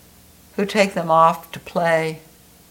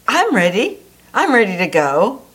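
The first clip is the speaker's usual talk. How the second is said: enthusiastic; 3 semitones higher, 3 dB louder than usual. Acted. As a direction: bounce with eagerness to go. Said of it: "it says enthusiastically".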